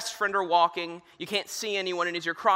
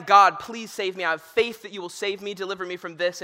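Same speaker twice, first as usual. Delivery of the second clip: desperate prayer. Retold or imitated. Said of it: "he's praying".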